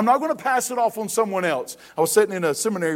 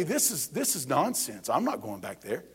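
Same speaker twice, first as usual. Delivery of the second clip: mock grumble; 6 semitones lower, 9 dB quieter than usual. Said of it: "We would say".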